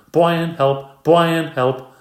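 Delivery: put-on high loud child's shout; little boy shouting while following his sister. A narrator's reading. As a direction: shout it twice, mock panic.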